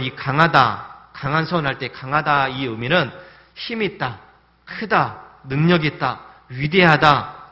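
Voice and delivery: each word punched loud and drawn out; preacher stressing power; emphasising each word. Shown as a demonstration. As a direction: hammer every adjective slowly. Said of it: "그런 의미들 다 갖고 있습니다".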